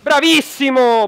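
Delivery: slow, loud, drawn-out cheer; excited praise. Real, not acted. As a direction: stretch it out like a big cheer. Teammate wins a one v two.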